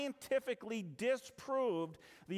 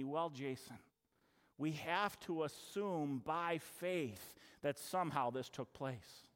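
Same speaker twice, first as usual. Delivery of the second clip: lightly voiced teacher, softer, fading away; a hint of a teacher dodging the question; teacher's evasive answer; 7 semitones lower, 5 dB quieter, slower than usual. Retelling the teacher's answer to his question, a softer, fading mock teacher. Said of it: "she said to me".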